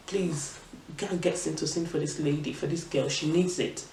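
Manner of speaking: soft, subdued retold request; quiet plea. Mom asks nurse for medicine for daughter, quiet plea.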